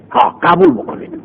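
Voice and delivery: "قبول بکنید" jumps up high but stays soft; high insistence. Acted. Teacher echoes the captive's plea to accept, high and soft.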